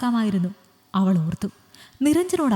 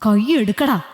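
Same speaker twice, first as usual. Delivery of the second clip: sharp angry command, a bit louder; raised angry voice; 4 dB louder than usual. Acted. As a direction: snap the order at him. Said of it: "അവളുടെ ശബ്ദം ഉയർന്നിരുന്നു".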